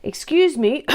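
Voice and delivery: a high, loud little cricket calling out; cricket's voice. Acted. The cricket catching sad Gerald's attention, high and loud. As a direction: pipe up politely as the tiny cricket. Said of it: "coughed a cricket".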